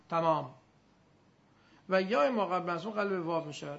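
ordinary talk

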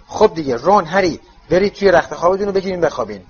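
quick, firm mum hurrying them; mother rushing boys to bed, brisk. Acted. Mrs Weasley hurries boys to bed.

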